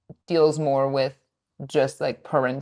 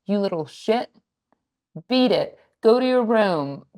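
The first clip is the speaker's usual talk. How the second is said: mock harsh parent; 4 semitones higher than usual. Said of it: "better than being like".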